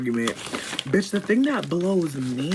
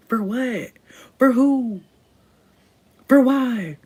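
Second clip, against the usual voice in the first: exasperated; 7 semitones higher, 4 dB louder, much slower than usual. Real, not acted. Exasperated rhetorical questions.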